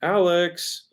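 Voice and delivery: long sing-out on "Alex"; wife calling out. Shown as a demonstration. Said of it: "if my wife were calling me".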